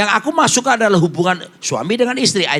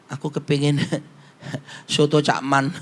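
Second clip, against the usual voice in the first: wife asks, laughing; 5 semitones lower, 5 dB quieter than usual. Retold or imitated. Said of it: "dia bilang".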